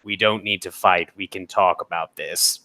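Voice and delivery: thin reedy voice. Acted. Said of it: "this reedy voice".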